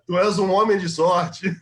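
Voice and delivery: slow words through a laugh. Real, not acted. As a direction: laugh while teasing him. Laughing at a friend's luck.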